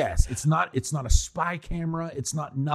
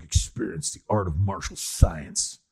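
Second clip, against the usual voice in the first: "Experience the art of martial science" dropped lower, flat and unimpressed; lower deadpan tagline; 6 semitones lower than usual. Retold or imitated. Mocking the film's line to his co-host, lower deadpan. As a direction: say it like a bored voiceover after a kick. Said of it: "it's like".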